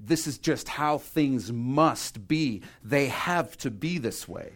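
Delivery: slow, insistent weight on "must" and "have"; emphatic. Retold or imitated. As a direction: stretch "must" as settled fact. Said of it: "That's his emphasis".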